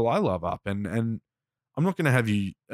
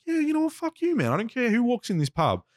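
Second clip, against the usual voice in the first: retold rant, pitched up high; losing it, retold. Telling off a bloke in the pub, heated. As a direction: re-enact telling someone off, voice climbing. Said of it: "I sort of lost it".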